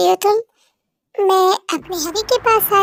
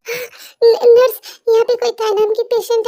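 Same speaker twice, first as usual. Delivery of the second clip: sob; 4 semitones higher than usual. Acted. Rushing to hospital crying.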